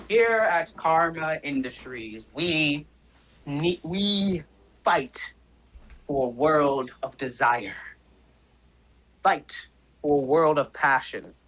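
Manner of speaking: lightly voiced villain speech; grandiose villain. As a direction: deliver it like a company creed, with weighty pauses. Game master voices villain's speech.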